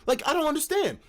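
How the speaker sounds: high, laughing, bewildered pleading; excited confusion. Retold or imitated. Calming his raging friends as they burst in, laughing and confused. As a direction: laugh while begging them to explain. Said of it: "I'm like".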